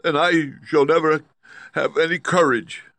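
high, loud lion declaration; declaring lion. A narrator's reading. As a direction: declare it with feeling. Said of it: "declared the lion".

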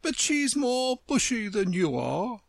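high, slow, proud flower voice; grand and disdainful; haughty Tiger Lily. Acted. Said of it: "said the Tiger Lily".

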